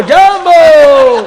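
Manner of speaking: jambo stretched very slow, high and loud with a laugh; drawn-out mock greeting shout. Storyteller stretches the African greeting into a long laughing shout. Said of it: "આફ્રિકાના આવેલા".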